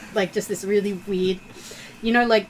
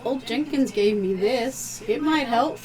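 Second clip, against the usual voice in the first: calm therapist voice; 3 semitones higher than usual. Acted. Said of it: "calm therapist voice with the undertones of vast echoes".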